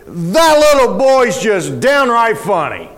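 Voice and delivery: slow, drawn-out line for the congregation to echo; call-and-response line. Shown as a demonstration. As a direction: say it slowly for the people to repeat.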